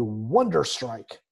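drawn-out mock awe with a pitch leap on wonder; sarcastic. Real, not acted. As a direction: oversell it slowly, tongue in cheek. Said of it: "I'm being sarcastic".

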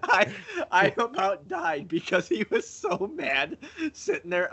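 words pushed out through real laughter; laughing hard. Real, not acted. Cracking up while telling co-hosts about Tony. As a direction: laugh it out, barely holding it together. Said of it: "I'm crying".

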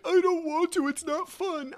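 put-on high, loud whiny little boy; whining child. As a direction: imitate a kid whining in protest. Voicing his reluctant young son.

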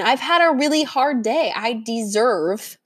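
a lightly voiced whiny craving begging for its treat; desperate pig voice. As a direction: mock-desperate inner voice. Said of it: "your lizard gets a little bit more desperate".

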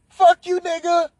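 high-pitched mock cursing; angry woman. Insulted date cursing the man, mock angry. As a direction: imitate her angry parting shot up high.

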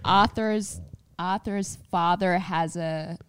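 American accent attempt. Shown as a demonstration. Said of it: "Let's hear it".

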